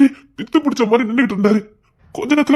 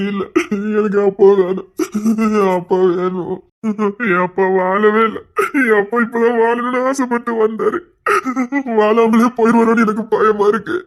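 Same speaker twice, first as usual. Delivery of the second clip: tearful fear. Acted. Crying, afraid father will die.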